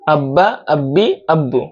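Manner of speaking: আব্বা, আব্বি, আব্বু each with a doubled b; doubled consonants. Shown as a demonstration. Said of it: "তাসদিদের উচ্চারণ প্রতিটা হরফে দুইবার হবে". (আব্বা, আব্বি, আব্বু-তে ব দুইবার)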